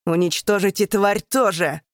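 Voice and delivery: loud command to destroy; angry order. Acted. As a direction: bark out the kill order. Emperor orders the beast killed.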